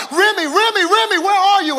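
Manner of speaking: retold frantic calling. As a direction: call out across a field for her. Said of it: "We started shouting out".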